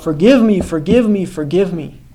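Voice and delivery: pleading cry that starts high and loud, then fades; retold cry for mercy. Prisoner crying out to the glowing man in his cell, pleading, then fading. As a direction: beg for forgiveness, dying away by the third. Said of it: "And he cried out".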